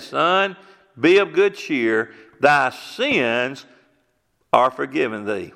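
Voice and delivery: a slow, solemn blessing; Jesus speaking. Retold or imitated. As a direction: lay each word down gently, like a blessing. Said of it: "He said".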